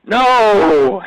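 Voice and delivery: loud, high laughing no; loud amused disbelief at his guest; surprised protest. Real, not acted. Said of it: "Uh, you do".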